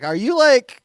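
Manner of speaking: high, loud mock questioning; comic heckling an audience member; retold crowd ribbing. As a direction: rib someone loudly from the stage.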